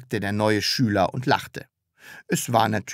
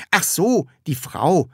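light "oh, I see" tone; dawning understanding; 6 semitones higher than usual. Acted. Cheeky pupil finally getting it, understanding. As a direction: let it click, lightly. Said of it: "sagte das Sams verstehend".

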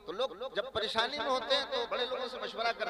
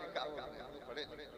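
mock villager; 9 semitones lower, 13 dB quieter than usual. Mocking the village headman's reply.

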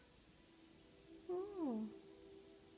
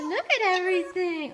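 high, slow and clear for the bird to copy; teaching the bird a phrase; 5 semitones higher, 6 dB louder than usual. Shown as a demonstration. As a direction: spell it out slowly so the bird learns it.

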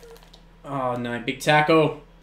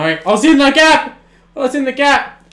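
louder, higher cry of dismay; real gamer frustration; frustrated shout; 8 semitones higher, 7 dB louder than usual. Real, not acted. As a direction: groan it out loud at the screen. His player missed a tackle.

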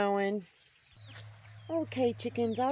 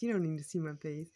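whisper; 6 semitones lower, 5 dB quieter, faster than usual. Real, not acted. Aside to herself, whispered.

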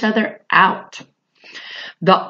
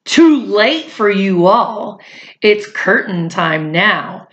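a mild menacing hiss, drawn out; a hint of a sly judge; lightly voiced hissing judge. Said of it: "The big judge hissed softly".

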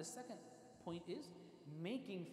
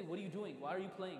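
louder reproachful questions; mock scolding; 5 dB louder than usual. Imagined scolding of a kid caught playing, raised voice. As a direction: imitate telling off a child. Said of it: "If he starts yelling and screaming at him".

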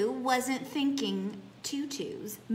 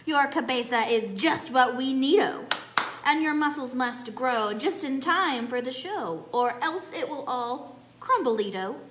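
louder, lively chant with a laugh at the end; excited cheering; 3 semitones higher, 6 dB louder than usual. Acted. Chihuahuas cheering at Scapito, louder and gleeful. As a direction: cheer him on like a gleeful gang. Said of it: "This made the chihuahuas twist and shout".

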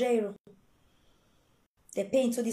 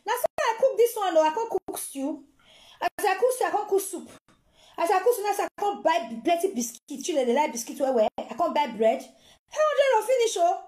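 begging relative; 3 semitones higher than usual. Retold or imitated. Relative begs for money, voiced.

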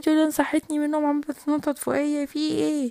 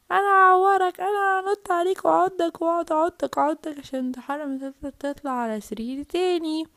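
angry threat; 3 semitones higher than usual. Acted. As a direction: threaten to bite him. Sister threatens brother. (تهديد غاضب للأخ)

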